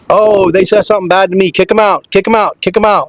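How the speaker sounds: mocking whiny player.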